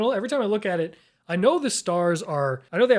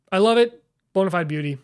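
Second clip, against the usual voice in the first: gushing; 5 dB louder than usual. Real, not acted. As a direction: repeat it with more excitement. Repeats it louder, higher.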